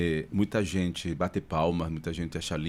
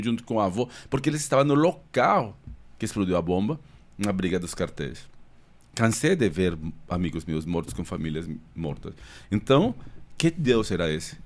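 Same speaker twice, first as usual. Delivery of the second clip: impassioned questioning; 3 semitones higher, 4 dB louder than usual. Real, not acted. Passionate account of violent youth.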